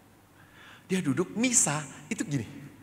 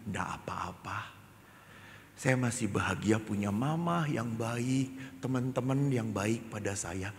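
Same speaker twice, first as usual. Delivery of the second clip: tender acceptance. Retold or imitated. Child's tender, accepting answer to priest.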